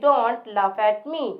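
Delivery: stare at me dragged very slowly; slow modelling. Shown as a demonstration. Teacher slowly modelling stare at me for the class. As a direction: draw each word out for learners. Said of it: "teacher models English slowly".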